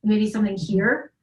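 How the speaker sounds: searching, probing voice; mild searching demo; showing the tapping. Shown as a demonstration. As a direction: act out tapping spots one by one. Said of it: "and it was like".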